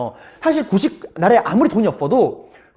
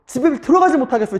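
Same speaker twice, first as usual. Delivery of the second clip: higher-pitched plea; pleading; 6 semitones higher than usual. Retold or imitated. Soldier telling the official he cannot face home, pleading. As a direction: beg as a desperate soldier. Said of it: "하고 막 애걸복걸한 거야".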